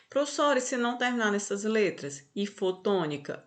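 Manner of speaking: a hint of a questioning student; imagined student asking. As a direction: raise the pitch slightly, as a pupil querying the teacher. Teacher voices a student's question.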